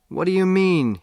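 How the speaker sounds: sharp high indignant question; Dad snaps back at his son, shouting. Acted. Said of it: "he shouted".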